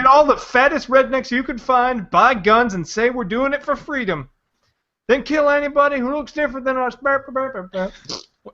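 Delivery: mock Texas redneck accent; ranting put-on Texan. Mocking a Texan militia man in a Texas accent. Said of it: "that's a great Texas accent".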